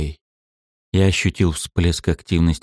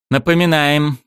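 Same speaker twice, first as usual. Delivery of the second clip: through gritted teeth; 8 semitones higher than usual. Acted. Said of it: "процедил Александр".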